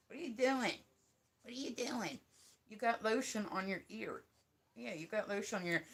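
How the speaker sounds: playful scolding of a dog; pet-directed chiding. Real, not acted. Talking to the puppy.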